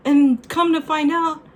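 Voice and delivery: high, loud, incredulous outburst with a laugh; exasperated disbelief. Real, not acted. Woman revealing partner has no inner voice, exasperated disbelief.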